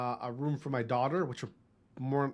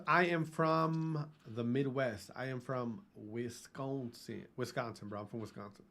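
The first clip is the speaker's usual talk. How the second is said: Midwest drawl; 2 semitones lower, 7 dB quieter than usual. Real, not acted. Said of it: "I don't know I was talking like that".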